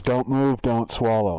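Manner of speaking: a hint of the scanner speaker; lightly imitated machine order. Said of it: "Just as the voice goes".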